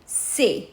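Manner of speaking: "c'est" said as "say"; short "c'est" with an open "ay" ending; without cédille. Shown as a demonstration. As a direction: say "c'est" like English "say". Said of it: "Without C".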